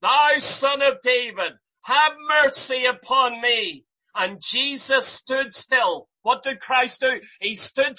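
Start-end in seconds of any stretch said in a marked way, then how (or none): 0.0-3.8 a bigger, more desperate cry for mercy. Retold or imitated. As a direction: plead harder, pushing the voice up and out. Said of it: "He cried the more a great deal".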